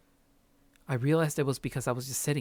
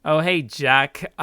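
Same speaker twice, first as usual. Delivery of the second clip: excited; 3 semitones higher, 9 dB louder than usual. Real, not acted. Loud reaction after reading.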